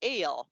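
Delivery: "ale" held apart after a long hissed s; onset-rime split. Shown as a demonstration. Turtle splitting sail for the kids, slow separated sounds. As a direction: stretch the s, pause, then "ale". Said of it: "I'm gonna say it slower".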